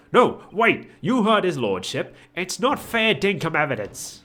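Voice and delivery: put-on a light Australian accent, loud; a hint of Aussie, called out. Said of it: "should be giving him more of an Australian accent".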